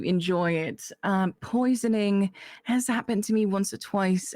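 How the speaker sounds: put-on character accent; lightly accented character voice. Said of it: "I didn't do the accent".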